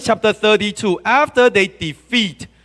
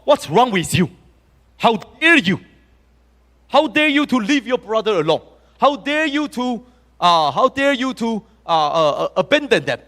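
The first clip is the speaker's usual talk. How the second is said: raised, scolding pitch; indignant Moses; 4 semitones higher than usual. Retold or imitated. Moses scolding tribes for abandoning brothers, indignant. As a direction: demand how they dare, indignant. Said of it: "he said to these people".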